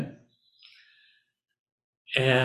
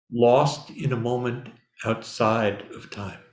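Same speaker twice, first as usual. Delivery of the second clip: slow, solemn poem recital; reading a poem. Shown as a demonstration. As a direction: read it like a meditation poem. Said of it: "let me read you a poem".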